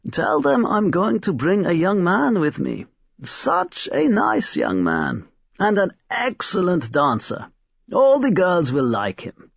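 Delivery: put-on old man calling out, high and gleeful; old toymaker calling after his daughter; calling after her. A narrator's reading. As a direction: call out with a secret grin. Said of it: "he called after her".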